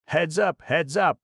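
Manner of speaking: very high, loud shrill call; shrill it out in alarm; piercing high warning; shrill cry. A narrator's reading. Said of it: "shrilled the headman".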